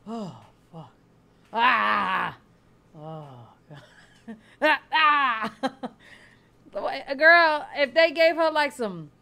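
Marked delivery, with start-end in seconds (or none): 0.1-5.5 mock groaning in pain; hammed-up "oh" and "ah" of pain; pretend pain groans. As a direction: moan and gasp as if hurting, playing it up. Acts out being in pain.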